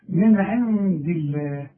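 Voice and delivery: "الله" said with a thin, light lam after the kasra; thin the lam of "الله", no heavy L; light Allah. Shown as a demonstration. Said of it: "رققت لفظ الجلالة".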